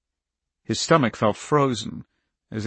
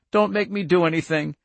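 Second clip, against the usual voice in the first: high-pitched plea; pleading; 7 semitones higher than usual. A narrator's reading. Girl begs agent not to force her hand, pleading.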